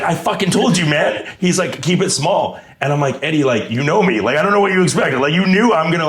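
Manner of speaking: laughing mock exasperation. Laughing retold argument.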